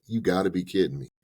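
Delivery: mock banker laughing at you; mocking disbelief. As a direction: laugh in their face, playing the banker. Bank laughing at broke borrower.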